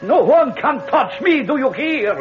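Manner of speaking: high, desperate cries, screaming his power; panicked defiance. Acted. Dictator facing the curse, panicked and shouting. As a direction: shout it out as doom closes in.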